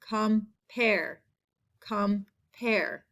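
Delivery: compare with the air in its second half drawn out; air sound stressed. Shown as a demonstration. Teacher modelling the second-half air sound. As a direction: lean on the pair in compare. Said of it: "That air sound in the second half".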